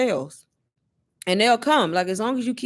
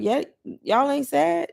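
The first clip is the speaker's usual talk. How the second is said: incredulous; 7 semitones higher, slower than usual. Retold or imitated. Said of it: "I be looking at them like".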